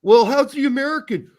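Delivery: high, loud eager question; mock curious fan. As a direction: ham up a nosy fan. Quoting curious fans.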